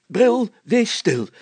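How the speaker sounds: high loud slow snap; irritated interruption. A narrator's reading. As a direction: cut him off, exasperated. Mayor silences Brilstra. (geïrriteerd onderbreken)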